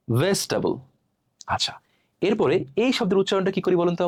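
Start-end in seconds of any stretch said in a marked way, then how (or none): 0.1-0.7 ভেজিটেবল shortened to "ves-ta-bol", falling; correct pronunciation. Shown as a demonstration. Teacher answering how it should sound, correctly pronounced. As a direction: squeeze ভেজিটেবল into three syllables. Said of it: "এর উচ্চারণটা কি হবে".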